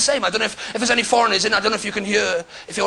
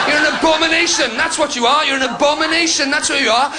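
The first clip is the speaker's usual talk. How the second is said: mock preacher; 3 semitones higher than usual. Mock preacher berating audience member.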